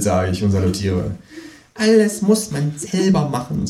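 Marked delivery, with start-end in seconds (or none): 1.7-3.7 high kangaroo voice, a touch of a sigh. Acted. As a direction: grumble about doing it yourself. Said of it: "seufzt das Känguru". (seufzende Känguru-Stimme)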